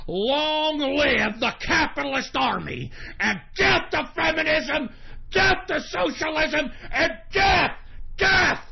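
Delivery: shouting slogans to close the show; rally shout. Real, not acted. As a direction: bellow it like a rallying cry. Rallying sign-off chant.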